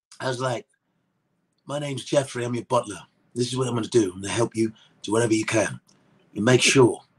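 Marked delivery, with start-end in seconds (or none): 1.6-6.9 put-on low, tough British accent. Showing the accent he did for the Fresh Prince butler Jeffrey, Jason Statham-style British accent. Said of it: "let's hear it".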